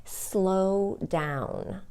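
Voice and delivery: slowed down. Shown as a demonstration. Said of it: "Just practice your rate of speed".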